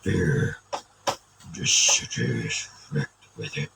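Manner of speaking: low, menacing orc growl. Pretend. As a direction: speak it like a brooding orc warrior. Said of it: "it's more of an orc voice".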